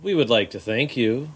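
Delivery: slow, drawn-out cabin announcement; a lightly mocked flight attendant. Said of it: "lady who's been a flight attendant ... goes".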